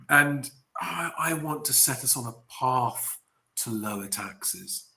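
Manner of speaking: mock an awkward, halting political speaker; awkward politician. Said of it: "his very awkward sounding comments".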